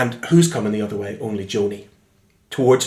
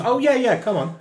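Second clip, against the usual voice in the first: bus driver; 12 semitones higher than usual. Retold or imitated. Bus driver finally understands.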